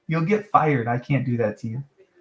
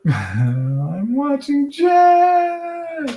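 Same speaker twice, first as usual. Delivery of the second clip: slow laughing "Jack"; 10 semitones higher, much slower than usual. Real, not acted. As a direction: laugh through it. Laughing drawn-out.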